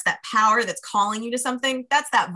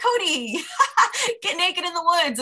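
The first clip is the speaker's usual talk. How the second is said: inner voice; 9 semitones higher than usual. Retold or imitated. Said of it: "I hear this voice and it's like".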